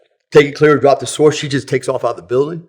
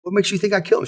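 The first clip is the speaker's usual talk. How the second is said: mock incredulity; 8 semitones higher, 5 dB quieter, faster than usual. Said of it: "I said".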